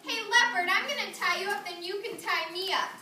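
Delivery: a hint of cunning spider; mild storybook trickster voice; lightly voiced Anansi.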